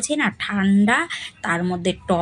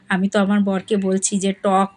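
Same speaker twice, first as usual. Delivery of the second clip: ordinary talk, nothing marked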